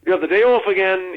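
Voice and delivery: imitating a chirpy colleague saying hello; cheery greeting.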